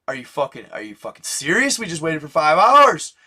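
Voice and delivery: a hint of a fed-up boyfriend; pissed-off boyfriend. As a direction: retell the boyfriend's annoyed blow-up. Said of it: "he's pissed off".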